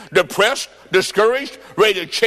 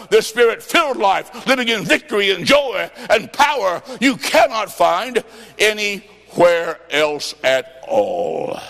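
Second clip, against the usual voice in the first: preaching shout; slower than usual. Real, not acted. Preacher rebuts the devil's lie.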